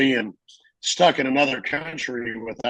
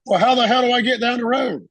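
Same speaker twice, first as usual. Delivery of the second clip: exasperated; 9 semitones higher, 4 dB louder than usual. Retold or imitated. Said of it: "I'm like".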